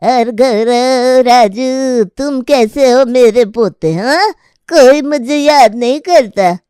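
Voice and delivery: lightly voiced grumbling grandmother, slow start; a cranky old mother scolding her son. Grandmother scolding her forgetful son, lightly voiced.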